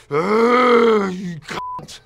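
loud, long, high groan into a curse; re-enacted fury, straining and loud; enraged growling outburst. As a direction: let pent-up rage burst out, then spit the insult. Re-enacting rage at his father.

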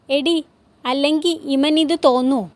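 lightly acted aggrieved husband; a hint of a blustering patriarch; short-tempered father, indignant. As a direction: protest indignantly to your wife.

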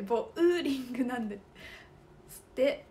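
ボウリング said bo-u, loud and firm; correct pronunciation. Shown as a demonstration. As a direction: stress the ウ in ボウリング. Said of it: "ボーリングじゃなくて". (「ボウリング」のウを強調)

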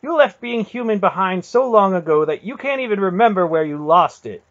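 very high, loud furious tirade; runaway anger. A narrator's reading. Garion turning on his aunt, runaway fury. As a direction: let the words rush out in uncontrolled anger. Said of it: "his anger had finally run away with him".

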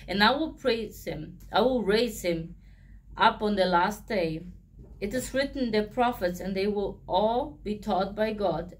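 measured Bible reading voice; steady, solemn scripture read. Acted. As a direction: read the passage aloud like a lector. Reading John chapter six aloud.

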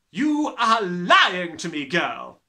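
slow, loud accusing shout. Acted. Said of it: "the Trunchbull shouted".

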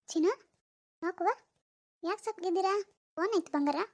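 put-on soft, cooing question to a baby; gently fussing over a baby; tender baby-talk. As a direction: coo softly to your little one.

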